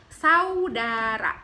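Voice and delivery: "Saudara" drawn out slowly and firmly; very slow clear "Saudara"; slow careful pronunciation. Shown as a demonstration. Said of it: "Pengucapannya adalah".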